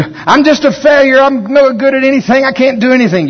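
high, loud moping voice; mock whiny self-pity. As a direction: whimper out self-pity, hammed up.

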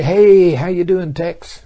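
high, loud hello across the airport; cheery shouted welcome; loud happy greeting. Pretend. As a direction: call out to an old friend.

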